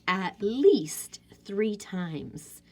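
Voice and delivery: slow breathy whisper. Shown as a demonstration. Teacher whispering how often she reread.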